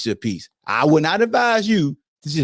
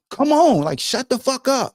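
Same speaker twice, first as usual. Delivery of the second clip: mock angry yell; 10 semitones higher than usual. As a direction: tell him off, half yelling. Yelling at coach during game.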